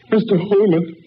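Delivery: rising from high alarm to a scream; climbing shriek, final name drawn out; horrified. Acted. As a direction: cry out at a dreadful sight. Horrified at what he finds.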